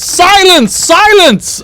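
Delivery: high-pitched jester's cry; theatrical, high call for order; jester calling silence. Acted. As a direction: hush the musicians as a piping jester. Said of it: "the jester ... and then says".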